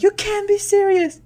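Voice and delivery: loud, high mock disbelief; incredulous onlookers. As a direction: protest in exaggerated shock. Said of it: "They're like".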